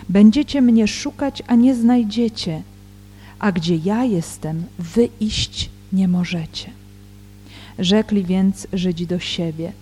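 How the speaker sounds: solemn Gospel reading with deliberate pauses; scripture reading. Real, not acted. Teacher reads John's Gospel in Polish before commenting, measured scripture reading. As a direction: read the verses out, phrase by phrase.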